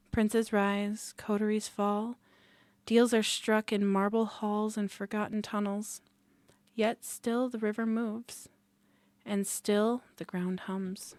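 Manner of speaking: ominous storyteller voice, measured; dramatic narration. Acted. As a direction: set a dark gothic scene. GM opening scene narration.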